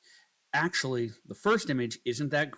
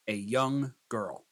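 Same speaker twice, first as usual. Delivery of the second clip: slow prompt dictation; slower than usual. Shown as a demonstration. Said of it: "start with a simple prompt".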